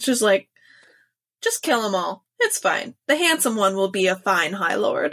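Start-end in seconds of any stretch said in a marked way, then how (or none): 1.4-5.1 put-on offhand, unbothered voice. Retelling a book scene, imitating Amren: offhand Amren voice. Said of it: "without even looking up from the shit she's doing".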